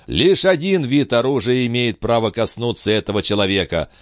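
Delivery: a stern avenger, high and deliberate; grim prophetic stranger. Acted. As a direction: speak like a prophet of doom to the king. Bio threatens the king.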